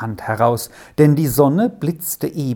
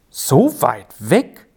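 doubtful; 3 dB louder, slower than usual. Acted. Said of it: "sagte er zweifelhaft".

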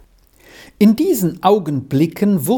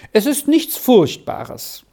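higher, slow reassurance; encouraging; 7 semitones higher than usual. A narrator's reading. Squirrel reassures Arthur after the flood, encouraging. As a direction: reassure a frightened playmate. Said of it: "sagte Squirrel ermunternd".

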